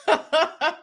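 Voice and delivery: mock gargly voice, breaking into laughter; gargling. Host cracks up mimicking the woman, gargling. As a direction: imitate gargled words while trying not to laugh. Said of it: "sounded like she's gargling".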